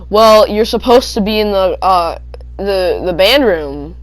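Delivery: halting, searching for the words; hesitant teacher. Retold or imitated. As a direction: trip over the words. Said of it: "she stutters like that".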